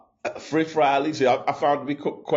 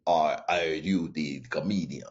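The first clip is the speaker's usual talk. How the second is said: put-on a light, slow Russian accent; 6 semitones lower, 3 dB quieter, slower than usual. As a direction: imitate the Russian driver lightly, slowly. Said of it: "one of them strong Russian".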